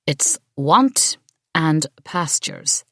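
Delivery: slow, reluctant "want and pastures"; the priest grudgingly corrects the prayer, slow and reluctant; reluctant correction. A narrator's reading. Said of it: "Father Kearney said reluctantly".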